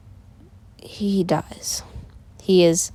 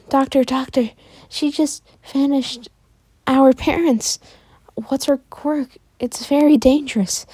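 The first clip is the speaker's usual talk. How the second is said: put-on high-pitched, pressing girl's voice; urgent sister; 8 semitones higher than usual. Izuka rushes to the doctor for help, high and urgent. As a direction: plead for help, pitch held well up.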